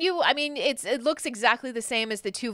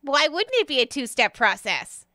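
lightly voiced pixie, a bit higher; retorting pixie; 5 semitones higher, 4 dB louder than usual. Pixie answers a doubting newcomer, higher and emphatic. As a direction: answer back in a slightly raised character voice.

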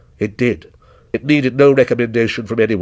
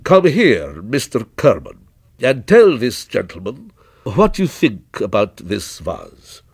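lightly voiced shopkeeper summoning his man; mildly theatrical merchant; proprietor, courteous and commanding; 2 semitones lower, slower than usual. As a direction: call an employee over to vouch for the goods.

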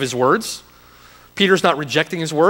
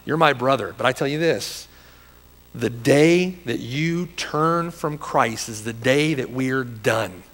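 earnest, tender; 3 dB quieter than usual. Retold or imitated. Telling a brother where loyalty ends, tenderly earnest. Retold earnest talk to a close friend.

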